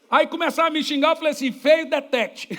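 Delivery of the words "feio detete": laughing mock shout. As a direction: throw the jeer out slowly, then laugh. Mock insult punchline. (zombaria lenta e gritada, caindo na risada)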